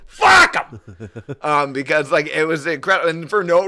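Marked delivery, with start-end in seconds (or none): 0.1-1.1 loud Walken-style quip; Christopher Walken impression. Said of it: "I'm always like".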